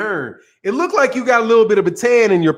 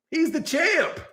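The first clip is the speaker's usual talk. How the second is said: softer, higher, in an odd voice; quiet put-on echo of the praise; hushed put-on echo; 8 semitones higher, 6 dB quieter, slower than usual. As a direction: echo it back meekly. Repeat in another voice.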